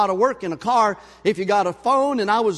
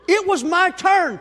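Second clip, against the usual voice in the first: indignant aside; 10 semitones higher, 4 dB louder, slower than usual. Real, not acted.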